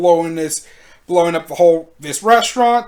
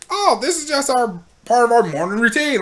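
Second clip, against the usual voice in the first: breezy mock-innocent explanation, pitched up; casual; 4 semitones higher than usual. Man explaining himself to the shocked girl, breezily casual. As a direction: brush it off like everyday business. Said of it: "casually, just like".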